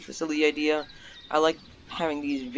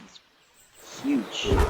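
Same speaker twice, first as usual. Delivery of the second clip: amazed; 12 semitones higher than usual. Real, not acted. Amazed at the droppings.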